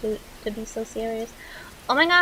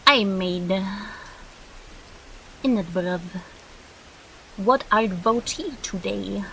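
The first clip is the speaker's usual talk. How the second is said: mock British soap opera; 4 dB quieter than usual. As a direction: ham up a British soap opera scene in a British accent, dragging the words. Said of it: "I feel like that would be British soap opera".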